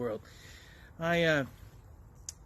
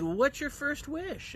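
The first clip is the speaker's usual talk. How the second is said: lightly raised genie voice, slow; 10 semitones higher than usual. Retold or imitated. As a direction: ask like a grand genie. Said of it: "the genie said".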